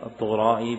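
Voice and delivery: الطغرائي pronounced without doubling; light, undoubled pronunciation. Shown as a demonstration. Teacher answers a question on pronunciation, الطغرائي said without doubling. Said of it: "لا، التخفيف".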